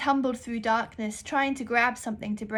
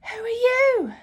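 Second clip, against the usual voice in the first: raised, higher and louder; a little louder; 14 semitones higher, 10 dB louder than usual. Acted. Girl repeats her question louder to the deaf librarian. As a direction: repeat it louder so she hears. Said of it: "Raven repeated a little louder".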